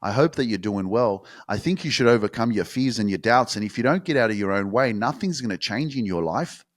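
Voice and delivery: a lightly voiced bland, polite host; mock soft podcast voice. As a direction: mildly mimic a tame, nice podcaster. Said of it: "you want me to do the podcast like".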